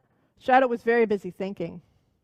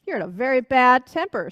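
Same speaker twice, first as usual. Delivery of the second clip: stubborn; 5 dB louder than usual. Acted. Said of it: "spoke up Shadow stubbornly".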